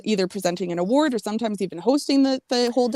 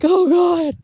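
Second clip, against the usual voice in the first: higher, louder mock-appalled exclamation; acted shock; 8 semitones higher, 6 dB louder than usual. Comedy fan acting out her reaction to jokes, mock-appalled. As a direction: exclaim it as if scandalised by a joke.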